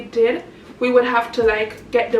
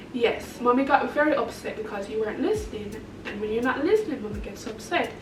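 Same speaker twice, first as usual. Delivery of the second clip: gentle motherly explaining; 6 dB quieter than usual. Retold or imitated.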